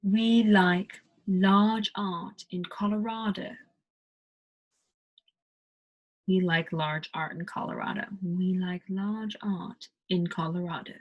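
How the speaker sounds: British accent, R dropped in "large" and "art". Shown as a demonstration. Teacher demos the British accent to learners. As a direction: read it British style.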